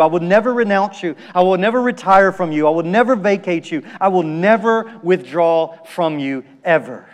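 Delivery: rapid run of promises, each hitting "never"; insistent litany. Retold or imitated. Preacher voicing Jesus' promises to believers, insistent. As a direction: drive through the list, slowing at the end.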